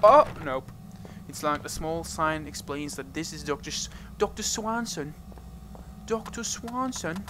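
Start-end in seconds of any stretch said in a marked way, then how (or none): 4.2-5.1 put-on British accent. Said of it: "that British accent". 6.1-7.2 put-on British accent. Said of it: "that British accent".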